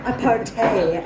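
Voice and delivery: mock French accent on partay. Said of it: "That's my French accent".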